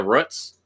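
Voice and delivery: "roots" with a short vowel, like put; Seattle pronunciation. Retold or imitated. Imitating the Seattle gardening man, short-vowel "roots". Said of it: "watching the Seattle news and going".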